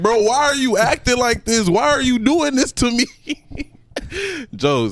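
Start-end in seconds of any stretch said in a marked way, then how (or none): 0.0-3.1 high-pitched mock-tearful protest; crying on the phone. Heartbroken man on the phone to his girlfriend, imitated crying. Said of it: "nigga who was crying on the phone".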